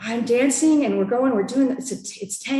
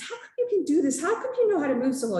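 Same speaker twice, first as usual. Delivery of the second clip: higher-pitched astonished questioning; mock-incredulous questions, pitched high; retold amazement; 7 semitones higher, faster than usual. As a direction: ask in amazement, pitch up, hurrying at the end. Retold amazed question to dance partner.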